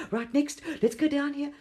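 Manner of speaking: casual next-please tone; breezy quote. Retold or imitated. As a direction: imitate a quick dismissal. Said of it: "Dolores Cannon said".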